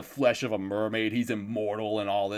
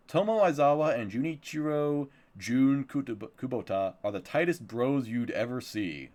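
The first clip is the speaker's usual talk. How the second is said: lively announcer-like blurb reading; performed plot summary; synopsis read-out; 3 semitones higher than usual. Acted. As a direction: read the series blurb with showy emphasis. Reads out a series synopsis.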